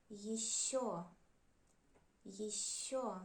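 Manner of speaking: ещё said "yi-SHYO", last syllable stressed. Shown as a demonstration. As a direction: lean on the final Ё of ещё. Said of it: "It is always stressed".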